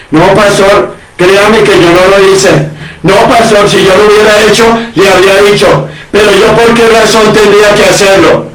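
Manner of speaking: a hint of a defensive member of the congregation; justifying himself. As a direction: imitate a churchgoer protesting his innocence to the pastor. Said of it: "Cuando va a justificarse".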